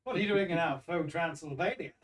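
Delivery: put-on thick Transylvanian accent, loud; hammy Transylvanian accent. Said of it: "With my thick Transylvanian accent".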